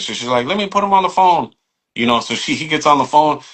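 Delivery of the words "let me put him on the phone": put-on high-pitched Vietnamese accent; imitating a Vietnamese shop owner. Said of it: "hardcore Vietnamese accent".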